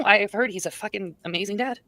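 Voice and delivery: slow, dry mock praise; sarcastic. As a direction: say it slowly, meaning the opposite. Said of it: "I'm being very sarcastic".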